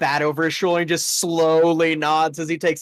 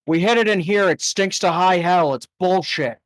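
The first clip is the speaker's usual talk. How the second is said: annoyed Yuri; 3 semitones higher than usual. Acted. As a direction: complain about the stink.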